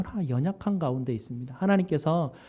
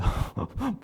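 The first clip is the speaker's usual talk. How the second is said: a quick, light laugh; short laugh; 5 semitones higher, 6 dB quieter than usual. Real, not acted. Preacher laughing at his own imagined boldness, light laugh.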